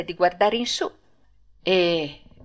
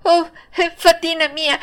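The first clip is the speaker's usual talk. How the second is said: high, eager call to the fairy; joyful cry; 10 semitones higher, 4 dB louder than usual. Acted. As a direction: reach out with the voice. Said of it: "si provò a gridare".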